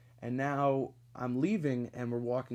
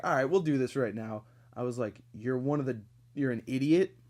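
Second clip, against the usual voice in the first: louder, firing insults; telling him off; 6 dB louder than usual. Retold or imitated. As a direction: let it rip at him. Telling off the coworker.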